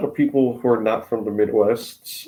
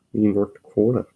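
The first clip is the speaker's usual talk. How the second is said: North Central accent on the long O; broad Upper Midwest vowels; faster than usual. Shown as a demonstration. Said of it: "this is my accent".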